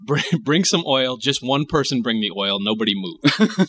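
imitating preacher. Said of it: "Like he said".

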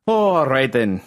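rough, over-rolled Irish R; attempted Irish accent. Shown as a demonstration. Showing co-host his bar attempt, amateur Irish accent. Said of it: "I can't really do an Irish accent".

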